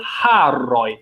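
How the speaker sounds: haroj with a clear h sound at the start; pronounced h. Shown as a demonstration. Teacher shows a clear h at the start of haroj. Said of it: "For example".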